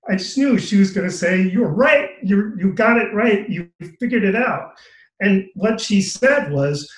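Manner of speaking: reliving a moving moment, choked up and intense; emotional. Real, not acted. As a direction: voice rising and straining with real emotion, close to tears. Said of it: "I'm sorry, I got emotional there".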